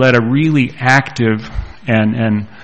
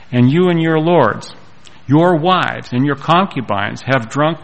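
emphatic, lifted Bible reading; declaimed verse with rising emphasis; scripture reading; 3 semitones higher than usual. Acted. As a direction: read it out as a pointed rebuke. Reads scripture aloud to congregation.

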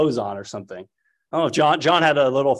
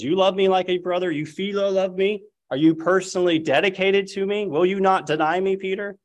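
higher, pressing questions of Christ; a lightly voiced Christ probing Peter's loyalty; voicing Christ; 6 semitones higher than usual.

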